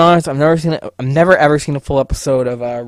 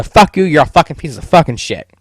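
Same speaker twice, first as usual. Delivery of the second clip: angry outburst; 2 semitones higher, 5 dB louder than usual. Real, not acted. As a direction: let it all out at the studio. Venting outburst at Sony.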